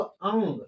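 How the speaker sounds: अंग with a faint g at its close; nasal with light g. Shown as a demonstration. Teacher contrasting endings, अंग with light g. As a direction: let अंग end in a soft touch of g. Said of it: "इसमें हल्का ग का उच्चारण होता है".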